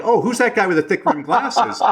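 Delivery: high, teasing mock voice of gossiping people; lightly mocking gossip voice; mocking imitation. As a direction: tease him like people whispering about the nerdy guy. Mocking how people talk about him.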